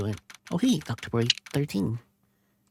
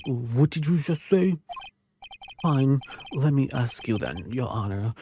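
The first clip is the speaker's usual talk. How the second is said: slow, haughty prosecutor voice with a different timbre; arrogant prosecutor; slower than usual. Acted. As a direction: drag it out like a smug prosecutor sneering at the court. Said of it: "What voice should I give him?".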